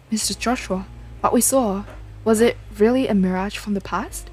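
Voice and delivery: lightly acted game dialogue, earnest and dramatic; character dialogue. Player voicing the characters' conversation about the ghost, lightly dramatic. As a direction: voice the characters as you read the story scenes.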